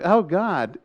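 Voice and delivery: high, amused retold gasp; a half-laughing oh God; awed dismay. Watching guards hang on cars, aghast.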